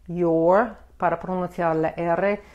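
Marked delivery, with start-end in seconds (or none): 0.1-0.8 "your" with a clear American R at the end; focus on R. Shown as a demonstration. Teacher showing learners the R, "your" ending in a rounded American R. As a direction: round the lips on the R of "your", tongue touching nothing. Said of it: "enfóquense en la R".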